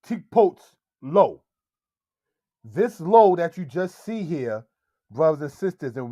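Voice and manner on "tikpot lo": lo placed after tikpot; wrong word order. Shown as a demonstration. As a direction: say tikpot first, then lo. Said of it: "You would not say".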